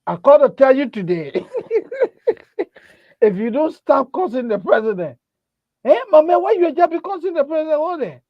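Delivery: menacing mock threat over the phone, with a laugh breaking through. Caller threatening the host over cursing the president, hammed-up menace. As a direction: lean on the threat like a hammed-up heavy.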